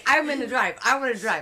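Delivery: imitating drugged son. Son high after surgery, whining.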